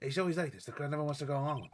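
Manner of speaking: goofy clown voice. Acted. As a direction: play it like a silly clown. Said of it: "I like doing a clown voice".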